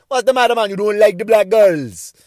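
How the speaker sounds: loud, high mock Jamaican accent. Comedian imitating the woman at the counter, loud Jamaican accent. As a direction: belt it out in a put-on Jamaican accent. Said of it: "that's my best Jamaican accent".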